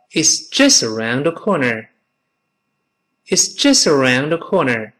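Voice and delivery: clear, deliberate model sentence for learners; model reading. Shown as a demonstration. Teacher models the phrase for Chinese students, clear model reading. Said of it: "我们说就在拐角之处，叫做".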